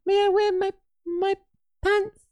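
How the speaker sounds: very high, hammed-up French lady asking permission; high-pitched comic French accent; mock French accent. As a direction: play a prim French woman begging the authorities, way up high. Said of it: "you wanna do a French accent?".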